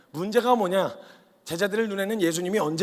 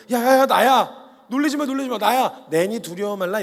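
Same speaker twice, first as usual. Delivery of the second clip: gentle reassurance; 4 semitones higher, 7 dB louder than usual. Retold or imitated. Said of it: "되게 인자하고 온유하게".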